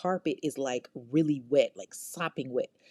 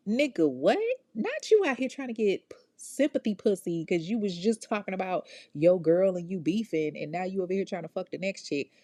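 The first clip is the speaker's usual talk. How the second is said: outraged disbelief; 3 semitones higher than usual. Real, not acted. Host outraged at killer's come-on.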